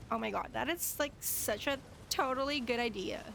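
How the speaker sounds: lightly voiced rich-girl sarcasm; sarcastic rich girl. Streamer answering a viewer's request, sarcastic rich girl voice. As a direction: gush insincerely like an American rich girl. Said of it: "sarcastic rich girl voice".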